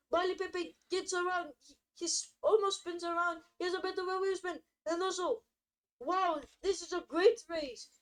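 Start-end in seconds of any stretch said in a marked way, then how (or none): 6.0-7.9 voice crack. Real, not acted. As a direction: voice cracking on excitement. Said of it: "Oh, I just had a voice crack".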